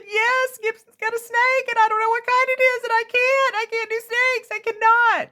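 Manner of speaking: very high, loud frantic pleading; retold panic. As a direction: blurt it all out to the neighbor in panic. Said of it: "And I said".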